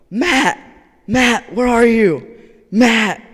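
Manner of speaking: high, loud call for a missing friend; shouting. Retold or imitated. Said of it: "and they're shouting, and they're going".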